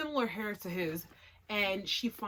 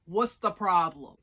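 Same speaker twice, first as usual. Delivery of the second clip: smug mock; 9 dB louder than usual. Mocking the uncle's smug attitude.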